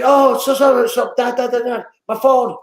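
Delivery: high, rushed-sounding mock fluster; flustered outburst. Parent retelling a forgotten phone moment, flustered outburst.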